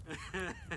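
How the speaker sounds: a soft, airless little laugh; breathy chuckle. A narrator's reading. Colt chuckles while looking over the house, soft laugh. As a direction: chuckle under your breath at a private joke. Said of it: "let out a chuckle".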